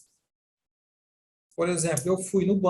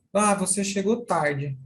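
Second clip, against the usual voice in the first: mild scolding. Shown as a demonstration. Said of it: "O que que isso quer dizer?".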